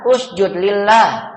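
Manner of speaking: USJUD LILLAH as a slow, firm order, dropping at the end; slow imperative with a final fall; commanding. Shown as a demonstration. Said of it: "menyuruh atau memerintah".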